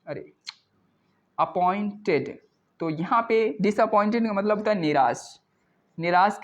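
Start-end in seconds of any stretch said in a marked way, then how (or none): 1.4-2.4 अपॉइंटेड drawn out in slow parts; slow syllable demo. Shown as a demonstration. Teacher repeating the word for learners, slow and drawn out. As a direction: sound out अपॉइंटेड unhurriedly.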